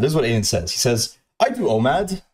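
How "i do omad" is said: high, valley-style I do omad; imitating a Californian bro, pitched high; fruity Californian voice. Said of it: "he says it in this fucking ... most fruity Californian way".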